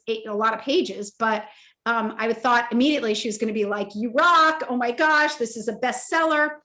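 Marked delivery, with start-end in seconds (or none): 3.9-6.6 imagined gush, higher pitched; gushing praise. Retold or imitated. She imagines the editor loving her pages, gushing praise. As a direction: gush in mock excitement.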